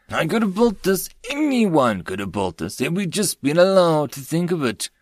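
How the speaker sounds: a touch of bitter frustration; frustrated fury. A narrator's reading. Inventor protesting she was never allowed, understated anger. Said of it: "clenching and unclenching her hands in fury".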